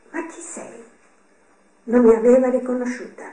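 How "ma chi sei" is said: soft, hushed, unhurried ask; calm question. A narrator's reading. Mother squinting at a dust-covered stranger, asking calmly. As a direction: gently wonder who this stranger is. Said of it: "Con calma mi chiese".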